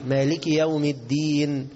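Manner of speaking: "مالك يوم الدين" with ki and clear dal; correct recitation. Shown as a demonstration. (ترتيل «مالك يوم الدين» صحيحًا)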